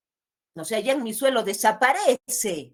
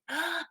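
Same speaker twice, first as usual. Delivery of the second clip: high gasp of pretend puzzlement; mock gasp; 9 semitones higher, 6 dB quieter than usual. Voicing a pupil puzzled by the poem's word, high mock gasp. Mock amazement before asking meaning.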